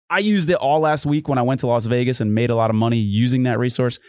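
upbeat sponsor read for the listeners. Acted. Host reading the Oddshark ad to listeners, upbeat ad read.

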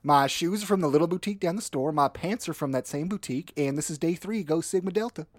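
put-on Southern sorority rush girl; Southern accent. Sorority girl showing her rush outfit to camera, Southern accent. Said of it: "you hear a Southern accent".

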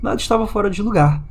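deliberate storytelling, paused phrase by phrase; horror story narration. A narrator's reading. Host reading a Reddit haunting story to listeners, measured narration. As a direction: read out a scary tale, measured and deliberate.

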